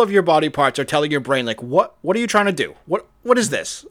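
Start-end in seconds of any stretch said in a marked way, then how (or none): 1.6-3.9 high, hammed-up alarm; mock panic. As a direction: play body parts pleading frantically with the brain. Body parts panicking at the brain.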